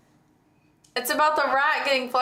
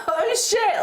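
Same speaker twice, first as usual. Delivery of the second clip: imitated panic; 10 semitones higher than usual. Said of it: "I just imagined you being like".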